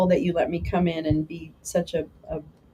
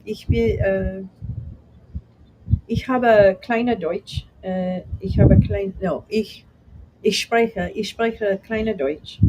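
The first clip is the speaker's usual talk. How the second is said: German attempt; slower than usual. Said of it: "I don't speak much German".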